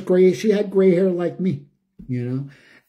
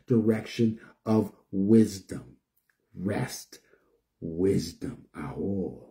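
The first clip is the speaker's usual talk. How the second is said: sinking lower and softer into a hushed whisper; fading to whisper; 8 semitones lower, 7 dB quieter, slower than usual. Real, not acted. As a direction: let the prayer die away to a breath. Closing prayer fading to whisper.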